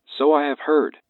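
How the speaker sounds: flat, emotionless alien voice; monotone alien master. Acted. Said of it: "the alien stated in a monotone voice".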